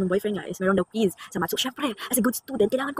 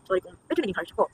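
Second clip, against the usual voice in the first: softer, tender sorry; soft apology; 3 semitones lower, 7 dB quieter than usual. Pretend. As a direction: say it gently as if to her. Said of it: "Gusto ko yung sabihin". (mahinang taos-pusong paghingi ng tawad)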